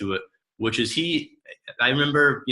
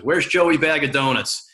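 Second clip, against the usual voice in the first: higher, louder demanding bark; 5 semitones higher, 4 dB louder than usual. Retold or imitated. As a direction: burst in demanding the man. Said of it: "he demands".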